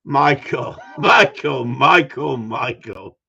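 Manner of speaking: loud repeated name call, last one dropping. Real, not acted. Calls out to viewer Michael.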